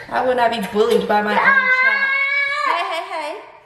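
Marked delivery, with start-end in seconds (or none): 2.7-3.6 hushed scolding. Real, not acted. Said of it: "Lower your voice".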